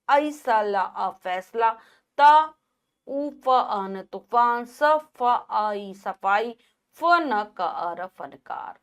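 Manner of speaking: slow syllable-by-syllable spelling; slow spelled-out demo. Shown as a demonstration. Teacher to children, spelling फ़ words slowly. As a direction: break फ़ words into sounds, then join them. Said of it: "कैसे?".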